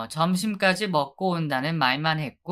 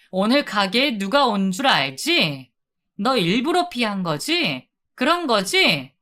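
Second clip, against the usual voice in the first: indignant confrontation; 4 semitones higher than usual. Acted. Wife confronting her husband who ran off, rising indignant anger. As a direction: throw the accusation at him, building.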